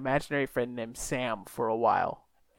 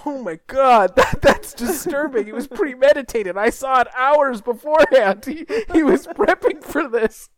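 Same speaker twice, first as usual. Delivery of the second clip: excited retelling; 9 semitones higher, 9 dB louder than usual. Real, not acted.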